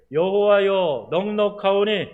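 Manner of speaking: loud, high anguished plea to God; pleading prayer. Retold or imitated. Elijah under the broom tree begging God, pleading loudly. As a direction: cry out begging God to take his life. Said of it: "하나님께 이런 기도를 하는 거예요".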